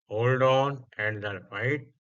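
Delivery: slow, drawn-out teacher read; slow model reading. Shown as a demonstration. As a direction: spell it out slowly for students. (धीमी आवाज़ में समझाना)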